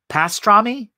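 high, pained Pastrami?; sighed. Acted. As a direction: ask it with a queasy sigh. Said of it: "sighed Ettel".

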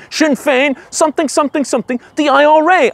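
high, loud ranting chant; mock shouting. Micheál shouting slogans on the breakfast table, high mock ranting. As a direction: bellow it from the tabletop. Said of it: "up on the table shouting".

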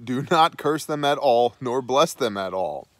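lightly acted exasperated command; acted pissy irritation. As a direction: read it as a king getting testy. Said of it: "now he's getting pissy".

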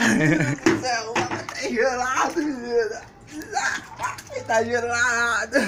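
shocked by icy water, voice up; in ice cold water. Real, not acted. Just got soaked in cold water.

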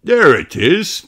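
half-hearted dad shout; mild shout. Acted. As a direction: point it out eagerly. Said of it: "Daddy Pig shouts".

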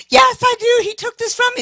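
very high, loud eager yes; eager girl. Retold or imitated. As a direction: imitate the girl's overjoyed reply. Girl eagerly answering preacher.

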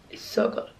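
breathy hushed whisper. Real, not acted. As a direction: whisper it softly. Whispering late at night skincare.

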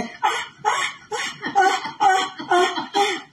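high, drawn-out ghostly wailing; mock Llorona wail. Streamer mimics La Llorona's wail for viewers, high and ghostly.

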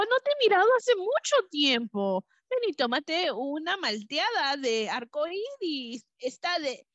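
high, put-on little bee voice. The bee inviting her friend for a milkshake, high bee voice. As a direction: chirp it sweetly like a tiny bee. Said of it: "la abeja dijo".

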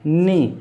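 knee said as "nee"; knee with silent k. Shown as a demonstration. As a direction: drop the k in knee. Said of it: "कि silent है". (knee में क silent)

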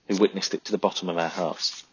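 usual speaking voice

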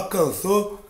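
usual speaking voice

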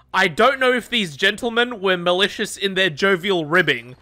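lightly imitated seventeen-hundreds gentleman; old-fashioned formal. Streamer quoting his mate's friend, old-fashioned formal. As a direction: quote it like a stuffy essay, understated. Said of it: "speaking like you're from the seventeen hundreds".

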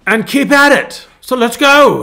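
cheerful British renovator urging everyone on; imitating British accent. Pastor imitating a British YouTuber's sign-off in a British accent. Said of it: "he goes".

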